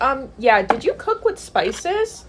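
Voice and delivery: mock snooty questioning. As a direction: imitate a judgy clerk, stretching the words. Imitating rude clerk questioning mom.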